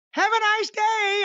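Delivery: very high, squeaky cartoon puppet voice; mocking the puppet's sign-off in a squeaky voice. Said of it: "I said, Mick Foley should sue".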